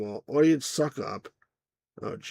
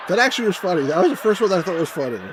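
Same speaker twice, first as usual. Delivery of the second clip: laughing; 4 semitones higher, 4 dB louder than usual. Real, not acted. Cracking up at a joke.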